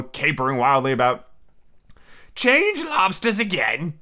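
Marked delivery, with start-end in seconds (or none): 2.4-3.9 high, drawn-out mock yell. A narrator's reading. Griffin calling the dance move, mock yelling. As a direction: yell it high without much extra volume. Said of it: "yelled the griffin at the top".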